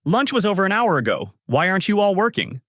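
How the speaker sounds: high-pitched scolding call; yelling. A narrator's reading. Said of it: "the section chief yells out".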